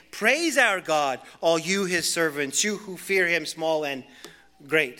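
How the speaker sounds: commanding praise call. Acted. Voice from the throne calling servants to praise, loud and slow. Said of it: "came a voice saying".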